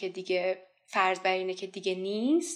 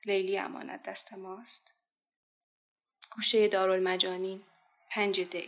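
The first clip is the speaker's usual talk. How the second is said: spoken-word war poem, measured phrases with pauses; dramatic verse recital; poetry recitation. Acted. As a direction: recite it line by line, surging on openings and falling away.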